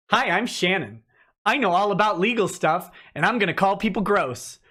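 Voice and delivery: lightly mocking impression of a legal know-it-all; Shannon. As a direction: put on a self-important introduction. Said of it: "I'm doing a Shannon voice".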